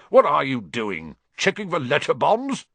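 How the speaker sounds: loud, rising taunt; shouted from the kitchen. A narrator's reading. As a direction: shout a joke through to the next room. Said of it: "shouted Uncle Vernon from the kitchen".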